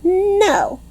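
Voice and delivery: high, sharp angry holler. A narrator's reading. Lucille hollering at Junie B, angry. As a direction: cut her off hard. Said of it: "she hollered".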